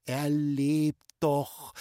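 very slow, consoling words; reassuring mother. A narrator's reading. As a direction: comfort the aunt, stretching each word. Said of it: "hat meine Mutter gesagt". (tröstend, ganz langsam)

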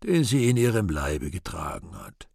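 rote, toneless repeating; mechanical. Acted. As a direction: recite it like a machine. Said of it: "Gottvater mechanisch".

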